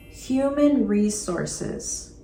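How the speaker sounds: Human resources drawn out slowly and clearly; slow model term. Shown as a demonstration. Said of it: "The next department is human resources".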